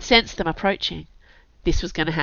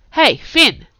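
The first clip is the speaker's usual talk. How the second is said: higher, louder offhand hail; casual call-out; 9 semitones higher, 8 dB louder than usual. A narrator's reading. Kurt hailing the girl past her assailant, casual call-out. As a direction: call across as if it's no big deal. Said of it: "calling out to her as if it was no big deal".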